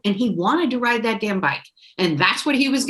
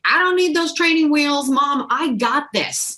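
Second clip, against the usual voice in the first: mock child's protest, pitched up and slowing at the end; cocky kid; 5 semitones higher than usual. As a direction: play the defiant little boy who refuses help. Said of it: "he was like".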